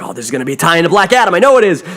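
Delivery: fast, rising certainty; excited guess. Retold or imitated. Reviewer retelling his excited guess at the cell scene. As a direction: blurt out the theory excitedly. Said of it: "and I'm like".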